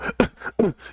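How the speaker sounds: grunts of someone taking punches; short breathy thuds from the throat; imitated body blow. Inmate telling what a jail beating sounds like, imitated blow noises. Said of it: "you heard the body blow".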